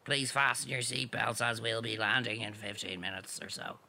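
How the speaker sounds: low, calm cabin announcement voice; airline pilot announcement. Pretend. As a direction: speak like a captain over the intercom. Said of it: "Here's my impression of a pilot".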